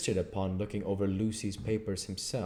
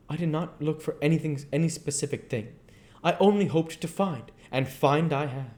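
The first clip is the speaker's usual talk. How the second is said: higher voiced, earnest foreign professor; foreign old professor; 7 semitones higher, 4 dB louder than usual. Professor explains to his colleague why he checks papers, higher and earnest. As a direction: speak as the learned foreigner, insistent.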